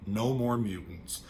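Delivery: calm. Retold or imitated. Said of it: "She just says it calmly".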